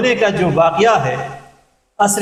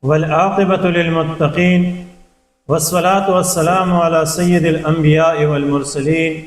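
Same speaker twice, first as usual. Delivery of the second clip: slow, measured Arabic recitation; Arabic opening invocation; 2 semitones lower than usual. Acted. Lecturer opening a lesson with praise of God, measured recitation.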